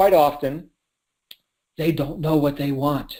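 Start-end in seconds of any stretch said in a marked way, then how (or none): 1.8-3.2 quiet, hushed, secretive voice. Speaker says a line as if sharing a secret, quiet voice. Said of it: "I'm saying that with a quiet voice".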